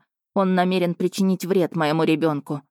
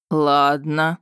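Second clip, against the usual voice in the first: drawn-out okay; 2 semitones lower, 3 dB louder than usual. Acted. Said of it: "протянул Рейн".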